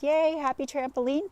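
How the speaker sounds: lightly hammed-up glee; happy thoughts. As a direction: give a little pretend cheer. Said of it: "all of these happy thoughts".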